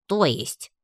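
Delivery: bewildered short question; puzzled. A narrator's reading. Heroine questions blushing Gayana, puzzled. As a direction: ask it in open puzzlement. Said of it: "С недоумением перевела я взгляд".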